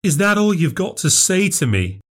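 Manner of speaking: lightly voiced sister, indignant; sister's indignant voice. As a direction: confront your sister, stung. First take, high indignant.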